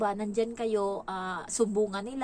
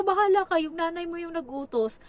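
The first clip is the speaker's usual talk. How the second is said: much higher, louder, shrugging tone; dismissive self-quote; 7 semitones higher, 4 dB louder than usual. Retold or imitated. Nanny replays telling the boy to do as he likes, high and dismissive. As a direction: wave it off, not your problem. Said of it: "Sabi ko".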